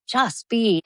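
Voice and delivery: light mocking imitation; mocking echo. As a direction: parrot it back, a little sarcastic. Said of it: "And I was like".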